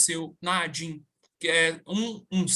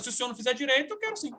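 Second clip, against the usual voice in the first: cheeky retort; 4 semitones higher, 4 dB quieter, much faster than usual. Retold or imitated. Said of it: "sabe naquele estalo?".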